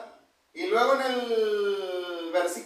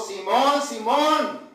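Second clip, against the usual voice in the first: calling out; much slower than usual. Acted. Cita la voz que llama.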